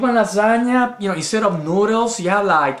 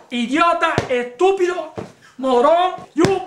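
pretend yelling at Roy Ray; 5 semitones higher than usual. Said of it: "let's pretend like this is Roy Ray".

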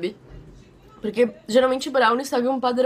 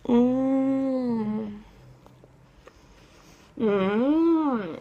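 chewing while talking; speaking around food; mouth full. Real, not acted. Seen 0: Bitten at -5, cheeks full and chewing until about +2.1s.

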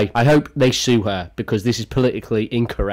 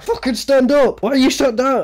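mock diva yell; 10 semitones higher than usual. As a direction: bark it like an imitated diva. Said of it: "it's like".

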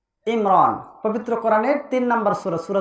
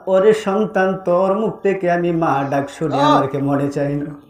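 low, melodic mourning plea; lightly voiced grieving mother, drawing out the questions; mildly acted mother's lament; 4 semitones lower, slower than usual. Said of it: "পাগলের মতো মা কান্দে আর বলে".

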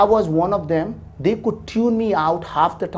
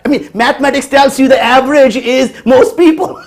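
laughing while he explains; chuckling through the point; amused laugh in the voice; 7 semitones higher, 9 dB louder than usual. Real, not acted. Laughing at offended doctors.

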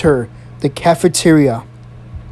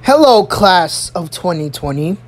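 principal's address. Retold or imitated. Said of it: "She taps on the microphone. She says".

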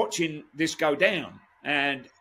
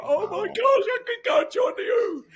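excited; 4 dB louder than usual. Retold or imitated. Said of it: "and I was like".

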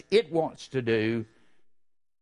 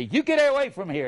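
sharp higher call at the wolf; mock shout at wolf; 9 semitones higher than usual. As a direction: chase the wolf off with a raised voice. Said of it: "I say".

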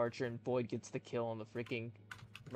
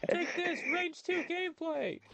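hammed-up battle cry; slower than usual. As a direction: shout it like an anime hero. Mock battle cry in game.

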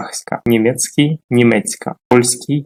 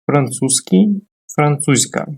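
slow, deliberate Французький and французька; teacher's slow demo of Французький; slow careful demo; 2 semitones higher than usual. Shown as a demonstration. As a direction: lay out французька slowly, each sound clear. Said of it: "Звернемо увагу на".

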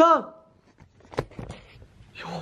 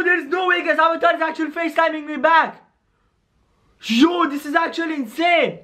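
excited; 4 semitones higher than usual. Real, not acted. Avatar calls him back.

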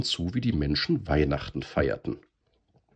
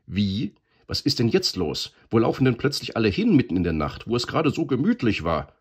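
put-on higher, whiny old-man complaint; grumbling; 7 semitones higher, 4 dB louder than usual. A narrator's reading. Grandfather grumbling at everyone running off, whiny. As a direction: grumble like a grandpa disturbed at night. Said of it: "nörgelte der Großvater".

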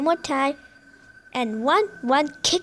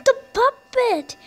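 high, slow startled yell; excited yell; 11 semitones higher, 8 dB louder than usual. Real, not acted. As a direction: call it out in alarm. Spots puppet on camera, yells.

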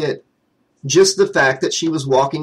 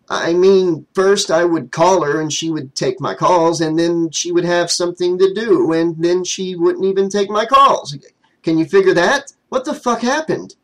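exasperated complaint; 3 semitones higher than usual. Acted. Jimmy complaining to his friend.

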